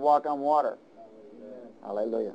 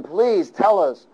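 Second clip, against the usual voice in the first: higher, pleading sailors' voices; sailors pleading; 5 semitones higher than usual. Acted. Preacher voicing sailors pleading with Jonah. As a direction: act out the frightened sailors begging Jonah. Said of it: "And they said to him".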